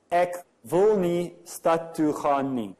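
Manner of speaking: slow, careful Afrikaans read-out, Ek wil nie stad toe gaan nie; Afrikaans sentence. Shown as a demonstration. Speaker demonstrating an Afrikaans double negative to the audience, slow and careful. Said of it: "there's a sentence that goes like this".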